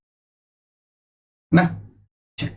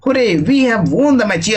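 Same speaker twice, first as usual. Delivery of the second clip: higher and slow, "हुर्रे" stretched; celebrating a win; mock cheer; 5 semitones higher, much slower than usual. Shown as a demonstration. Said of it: "ठीक ना". (जीत की ख़ुशी में चिल्लाते हुए)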